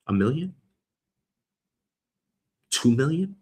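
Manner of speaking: "A million?" asked with a rising tune; "A million?" lifted at the end like a question. Shown as a demonstration. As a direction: float "A million?" up as a guess. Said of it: "Let's call it a million".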